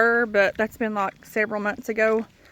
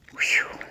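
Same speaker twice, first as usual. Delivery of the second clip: winded exhale; 4 dB quieter than usual. Real, not acted. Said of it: "I am so out of breath".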